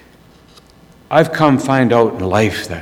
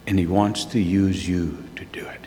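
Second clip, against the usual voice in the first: soft intimate whisper, much softer; 4 semitones lower, 8 dB quieter than usual. Real, not acted. Preacher telling listeners God works through them, whispered. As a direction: lean in and whisper it to the congregation.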